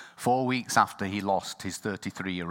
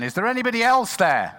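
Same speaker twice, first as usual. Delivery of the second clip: much higher, loud desperate yell; comic shout; 9 dB louder than usual. Retold or imitated. Man on the cliff yells for someone other than God, loud and high. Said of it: "So he shouted again".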